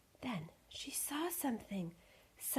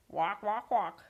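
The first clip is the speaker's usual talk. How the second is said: honked "walk, walk, walk", last one louder; goose honk; 5 dB louder, slower than usual. Acted. Goose answers Millie about the party.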